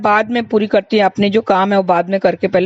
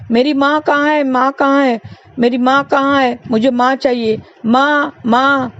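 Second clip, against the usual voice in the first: lightly voiced lost child; crying child; 4 semitones higher than usual. Lost boy cries out for his mother in the fair, high mild wail. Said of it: "बेटा रोने लगा".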